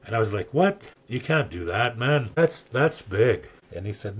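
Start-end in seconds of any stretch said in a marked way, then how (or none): 0.5-3.5 retold disbelief, opening high and loud; amazed. Teller reacting to builder's offer of free work, amazed. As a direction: start on a high, incredulous burst, then press on. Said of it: "I was like, just amazed".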